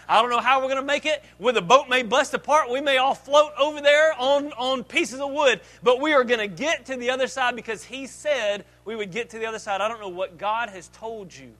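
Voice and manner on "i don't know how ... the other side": loud, defiant rallying cry to the crew; rally the boys, sinking but sure; bold declaration. Acted. Disciples rallying each other in the storm, loud and defiant. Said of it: "and they said".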